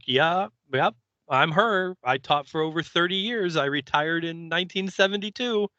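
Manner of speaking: a hint of a chirpy old lady. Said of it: "And she's like".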